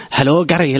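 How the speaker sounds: lightly Scottish greeting; put-on Scottish accent. Man re-enacting greeting a workmate, put-on Scottish accent. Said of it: "I put on a Scottish accent".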